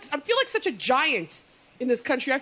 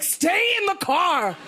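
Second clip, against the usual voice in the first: pleading; 5 semitones higher, much slower than usual. Retold or imitated. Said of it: "I was just like".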